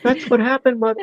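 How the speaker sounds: high put-on voice; character impression. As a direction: address mother high, in character. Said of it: "you almost matched his voice perfectly".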